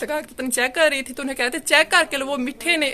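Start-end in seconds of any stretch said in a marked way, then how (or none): 1.6-2.9 light imitation of a hawker urging buyers; a touch of a street vendor's patter; vegetable seller voice. Narrator mimics the vendor telling women to check melons, lightly hawking. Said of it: "ऐसे जैसे बोलते हैं सब्जियों वाले".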